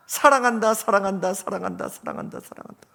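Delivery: high call fading down to almost nothing; mountain echo. Acted. Mountain returns the shouted love, fading echo. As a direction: imitate an echo receding into the distance. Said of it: "그 축복의 메아리를 들으며".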